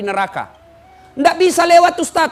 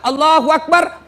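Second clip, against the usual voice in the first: slow, drawn-out Allahu Akbar, louder; prayer call demo; 4 semitones higher, 4 dB louder than usual. Shown as a demonstration. Imam leading the funeral prayer, slow drawn takbir. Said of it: "kursus kilat sholat jenazah".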